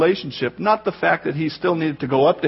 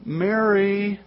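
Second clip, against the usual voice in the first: gently drawn-out name; softly held, tender call; tender Jesus; 2 semitones higher, 3 dB quieter than usual. Acted. Jesus calls to Mary by name, tenderly. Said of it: "Jesus said to her".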